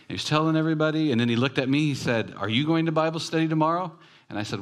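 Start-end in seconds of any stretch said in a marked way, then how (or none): 2.4-3.9 high, quick, eager question; excited. Retold or imitated. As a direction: imitate an eager man inviting a stranger. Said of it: "I mean, he was excited".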